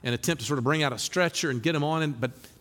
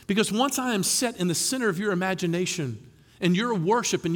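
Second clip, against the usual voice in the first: Jesus' invitation; 4 semitones higher than usual. Retold or imitated. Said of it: "Jesus is coming and saying".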